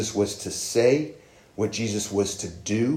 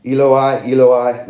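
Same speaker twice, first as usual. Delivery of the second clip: imitating a loud, drawn-out cry, pitched up; 3 semitones higher, 10 dB louder, slower than usual. Preacher quoting Jesus on the cross, crying out loudly. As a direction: cry it out as in scripture, much louder. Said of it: "cried out in a loud voice".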